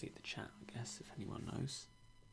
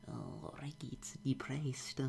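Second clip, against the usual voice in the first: slow, breathy whispered pity; a light imitation of chat fretting; slowed, whispered mock concern; mock gloomy viewer; 4 semitones higher, 4 dB louder, much slower than usual. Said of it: "people are just gonna say".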